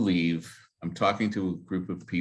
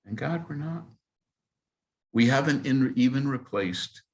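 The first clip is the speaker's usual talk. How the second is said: impassioned plea; 7 semitones higher than usual. Real, not acted.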